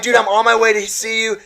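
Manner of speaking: high-pitched, eager retold reply; eager excitement. Teen telling his idol he is coming, eagerly excited. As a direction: gush it up high, replaying the thrill.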